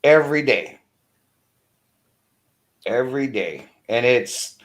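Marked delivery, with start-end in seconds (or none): 2.8-3.7 softer, a resigned second saying; quieter echo. Real, not acted. Venting about rude people he sees, the repeat said softer. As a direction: let the repeat fall away softly. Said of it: "repeated for emphasis".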